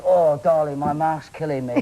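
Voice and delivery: lightly voiced posh royal complaint; mock upper-class English, lightly put on; Prince Charles. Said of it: "how Prince Charles feels at the end".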